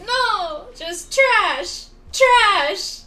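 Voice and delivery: loud, high outraged yell; real furious shout; disgusted shout. Real, not acted. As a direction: spit the word out. Reacting to bad pulls.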